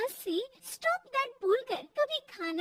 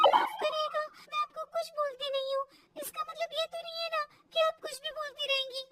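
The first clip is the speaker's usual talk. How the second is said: lightly voiced higher-pitched protest; indignant daughter-in-law; 5 semitones higher than usual. Daughter-in-law talks back to mother-in-law, indignant. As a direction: object in a raised pitch.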